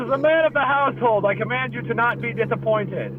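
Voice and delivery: playful pompous command; mock commanding patriarch. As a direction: proclaim it like a self-important household head. Mock decree of household head.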